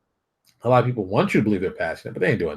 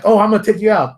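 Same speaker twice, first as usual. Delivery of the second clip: mock high threat; 8 semitones higher, 5 dB louder than usual.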